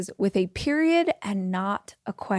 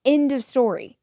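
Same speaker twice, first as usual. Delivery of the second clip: confident. Shown as a demonstration. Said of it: "Being confident is".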